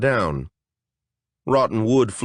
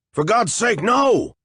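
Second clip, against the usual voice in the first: higher, louder desperate cry; alarmed shout; 11 semitones higher, 3 dB louder than usual. Acted. A warrior trying to stop the fairy's spell, alarmed. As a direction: yell to stop her too late. Justicar stopping her.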